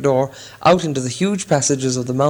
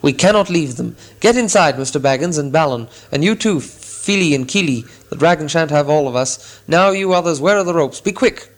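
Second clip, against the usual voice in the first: commanding Thorin; 2 semitones higher than usual. Acted. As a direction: take charge with dignity. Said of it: "recovering his dignity".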